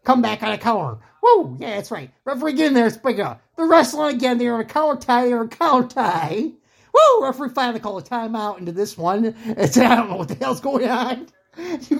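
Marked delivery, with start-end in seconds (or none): 1.2-1.6 sudden high whoop of excitement; fan-style woo at a big punch; excited whoop. Real, not acted. Cheering a counter punch. 6.9-7.2 very high, loud cheering woo; shrieking woo from ringside; excited whoop. Real, not acted. Cheering as the fight breaks.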